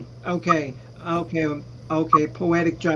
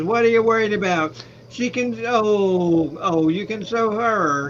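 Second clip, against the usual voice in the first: Mel Brooks; 4 semitones higher, 4 dB louder than usual. Retold or imitated. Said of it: "Mel Brooks says".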